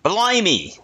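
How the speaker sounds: dubious attempt at New Zealand accent. Shown as a demonstration. Co-host attempts it on request, shaky-grasp New Zealand accent. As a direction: try a New Zealand accent, pitched high. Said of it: "Can you do a New Zealand accent".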